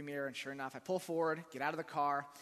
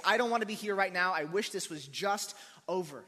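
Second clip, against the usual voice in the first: a touch of irritated outburst, louder; mock frustrated complaint; 3 semitones higher, 6 dB louder than usual. Pastor voicing our angry reaction to bad situations, mildly exasperated. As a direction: act out the fed-up grumble. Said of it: "our natural reaction is to become angry and anxious".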